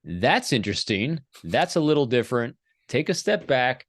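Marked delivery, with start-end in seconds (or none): 0.0-2.5 calm curiosity. Shown as a demonstration. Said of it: "what you should be just saying is".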